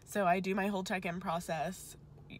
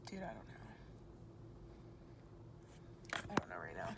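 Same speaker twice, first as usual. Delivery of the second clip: choked up; 12 semitones lower, 14 dB quieter, much faster than usual. Real, not acted. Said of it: "Now I'm getting emotional".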